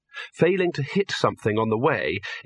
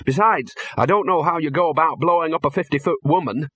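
irritated Dean; 4 semitones higher than usual. Acted.

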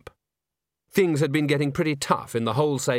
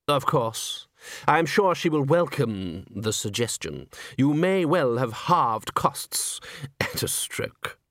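slow dry gentleman; slower than usual. Acted. Sal Zeller voiced by narrator.

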